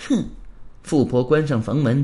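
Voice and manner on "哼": short scornful "hmph"; scornful snort. Acted. Rich woman greeting the intruders, a light scornful snort. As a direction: give a light, contemptuous huff. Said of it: "轻哼一声".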